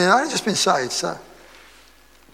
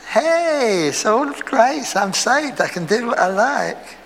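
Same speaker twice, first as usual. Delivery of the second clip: higher, breezy careless believer; carefree license; 5 semitones higher, slower than usual. Retold or imitated. Preacher mocks a careless believer with a higher, breezy voice. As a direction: toss it off like nothing matters. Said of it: "And you've got license".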